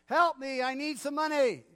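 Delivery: high, loud pleading; obnoxious beggar. Retold or imitated. Beggar pestering the crowd, loud and obnoxious. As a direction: nag the passers-by for money. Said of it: "a really obnoxious voice".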